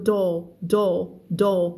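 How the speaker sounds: doll repeated slowly as a model word; teacher drilling doll; model pronunciation. Shown as a demonstration. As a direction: repeat doll clearly for the class. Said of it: "คำนี้ไม่อ่านดูนะคะ อ่านว่า doll".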